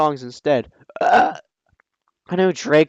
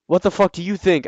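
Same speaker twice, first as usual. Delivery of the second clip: angry; 4 semitones higher than usual. Acted. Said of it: "I asked angrily".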